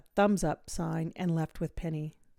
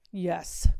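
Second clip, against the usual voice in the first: breathy whispered yes; barely breathed, unvoiced; 4 dB louder than usual. A narrator's reading. Melody answering Miss V in a whisper.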